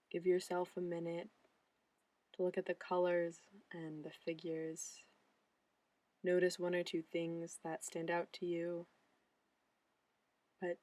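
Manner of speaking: calm, measured guide with long pauses; guided looking meditation. Acted. Mindfulness intern guiding viewers' eyes around a landscape painting, guided meditation. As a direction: gently lead the eye, phrase by phrase.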